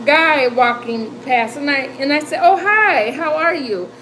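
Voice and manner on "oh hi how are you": higher, sweetly put-on hello; acted-out polite approach to a stranger; overly friendly greeting. Desperate Nana greeting a passing neighbour, put-on friendliness.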